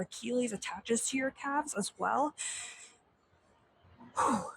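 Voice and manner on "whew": puffed exhale of effort; winded sigh after the lunges; breathless whew. Real, not acted. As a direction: blow out a tired whew. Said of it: "I'm out of breath already".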